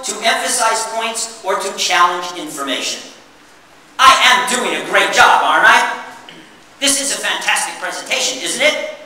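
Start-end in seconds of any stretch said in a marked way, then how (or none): 4.0-9.0 louder, fishing for agreement; mock-fish for compliments; rhetorical self-praise. Shown as a demonstration. Presenter demoing rhetorical questions, playfully smug. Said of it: "Questions tend to be rhetorical".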